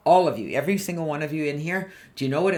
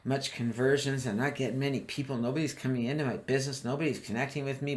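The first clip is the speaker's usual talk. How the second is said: mock dread; 3 semitones lower, 4 dB quieter than usual. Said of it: "You can't go in thinking".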